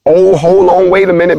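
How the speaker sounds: jolted, catching something odd; playful cue for the buzzer, said in mock surprise; mock surprised. Shown as a demonstration. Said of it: "when I get to the".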